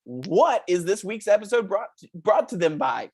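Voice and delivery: put-on chirpy children's show host talking to kids; lightly voiced kids' TV host, upbeat. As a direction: sell it like a cheesy kids' show presenter.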